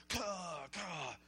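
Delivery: imitated guttural football player grunts; mock war cry from the field. Preacher showing how football guys psych up, pumped grunts.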